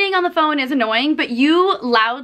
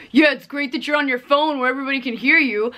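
snarky mock. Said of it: "she would be like".

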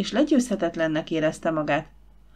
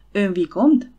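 trembling with anger; 5 dB louder, slower than usual. Acted. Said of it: "Reszketett a haragtól".

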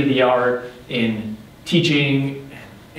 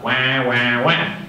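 duck quacking; slower than usual. Retold or imitated. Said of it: "all they heard was the quacking of a duck".

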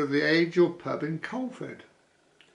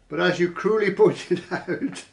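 laughing; 4 semitones higher than usual. Real, not acted. Reading comment, laughing at cruelly.

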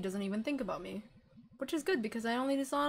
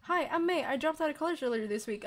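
higher, louder rehearsed hello; practiced greeting; 5 semitones higher, 4 dB louder than usual. Pretend. May rehearsing her greeting for the party, higher and louder. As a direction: try out a cheerful party opener.

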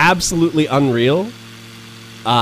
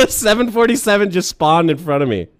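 laughing; 6 semitones higher than usual. Real, not acted. Plane appears right ahead.

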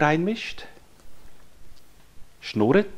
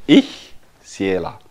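put-on slow, low, a bit louder proud child voice; proud toddler; 5 semitones lower, 7 dB louder, slower than usual. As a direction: let the child announce herself slowly. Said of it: "sagt sie ganz stolz". (langsame stolze Kinderstimme)

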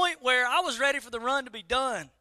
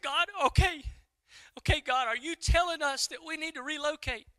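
higher-pitched, checking he heard right; raised voice pitch, seeking confirmation; questioning God; 6 semitones higher than usual. Retold or imitated. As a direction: act out a tentative, searching reply. Acted questioning reply to God.

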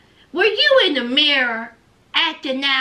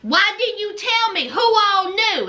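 Lindsay fussing; 4 semitones higher than usual. Retold or imitated. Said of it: "she's still fussing".

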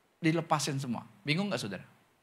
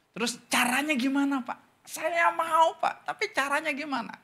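mimicking a confused mother; 8 semitones higher than usual. Meniru ibu muda yang bingung.

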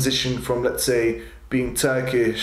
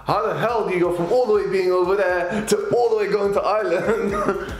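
high-pitched, incredulous questioning; baffled disbelief; 6 semitones higher than usual. Real, not acted. Wondering how ancestors got to Ireland, baffled and high-pitched. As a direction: puzzle it out in raised, comic bewilderment.

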